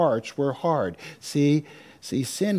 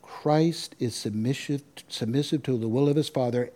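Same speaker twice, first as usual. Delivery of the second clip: slow emphatic repeat. Shown as a demonstration. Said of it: "Did you catch this?".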